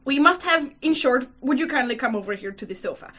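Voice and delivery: understated formal request with a touch of hurry; politely official, lightly voiced; dignified, slightly hurried. Young official asks Mitya for a word, mildly dignified. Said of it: "began in a dignified manner, though a little hurriedly".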